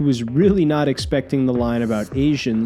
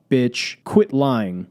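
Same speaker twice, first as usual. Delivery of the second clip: mock angry call-out; 3 semitones lower, much slower than usual. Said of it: "Nah, I'm just kidding".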